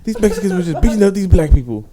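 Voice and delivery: laughing quote. Retold or imitated. Retelling Umar's complaint about the movie, laughing quote. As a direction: struggle to quote it while laughing.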